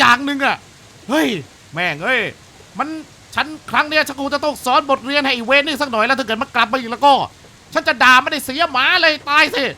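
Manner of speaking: hint of an angry uncle; angry old homeowner. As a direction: rant like a man sick of the intruder. Reads second diary, angrier.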